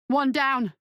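shouted. A narrator's reading. Weber to Lackman after flipping the first catch, shouting. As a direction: shout the small victory across a clearing. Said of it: "he shouted".

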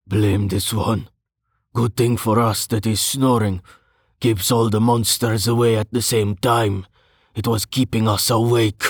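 lightly voiced weary adventurer; grumbling Hagar. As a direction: grumble as if just woken up.

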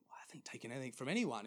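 hurried, half-whispered mock protest; anxious. Dreamer retold protesting to the voice, hurried and anxious. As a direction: rush it out as a nervous denial. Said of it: "he felt quite anxious".

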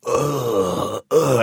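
mock groan of someone wiped out; sick groan. Host retelling his cold to listeners, mock sick groan. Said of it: "like, a fifteen percent cold".

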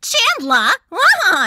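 high-pitched, nasal sitcom impression; Janice. Shown as a demonstration. Demoing a favourite sitcom character, high nasal voice. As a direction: whine it high through the nose. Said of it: "high-pitched nasal voice".

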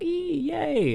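high, giddy little squeal; put-on girlish glee, very high; mock squeal of delight. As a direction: squeal it like a thrilled fan. Imitating the woman's delight.

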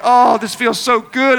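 slow, drawn-out savoring; acted blissful relief. Pastor savoring having finally shouted her down, blissful relief. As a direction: luxuriate in mock satisfaction. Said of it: "I actually felt so good inside".

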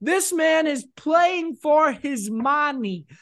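bad Malkovich voice hyping the Giants quarterback to his cohost; John Malkovich impression. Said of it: "You're doing that John Malkovich thing".

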